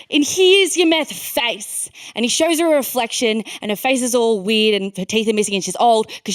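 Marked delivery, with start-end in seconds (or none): 0.1-1.9 mock dealer. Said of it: "he's like".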